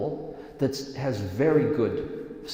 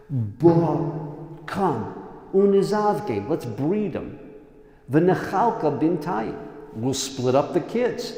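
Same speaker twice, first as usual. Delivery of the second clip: loud, higher, leering mock voice; crude scheming brothers; 3 semitones higher, 5 dB louder than usual. Brothers plotting over the couple, loud leering mock voice. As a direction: ham up the brothers plotting to breed them. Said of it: "That's how they talked about them".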